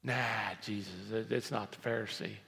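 low, soft, halting objection; doubting listener. Acted. Doubting churchgoer correcting Jesus, subdued hesitant objection. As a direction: quietly push back, lightly acted. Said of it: "you may be thinking".

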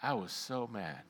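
low, soft confession of anger; hushed, deflated regret; subdued admission. Retold or imitated. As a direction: drop right down, quietly owning it. Subdued recall after rant.

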